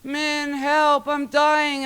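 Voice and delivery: high, frightened little-brother wail; panicked cry for help. Retold or imitated. Little brother crying out to his big sister, high panicked wail. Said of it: "I hear him".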